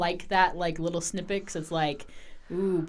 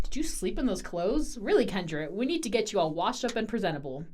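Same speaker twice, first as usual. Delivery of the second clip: excited; 3 semitones higher, 4 dB quieter than usual. Acted. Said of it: "There's an edge of excitement to her expression and voice".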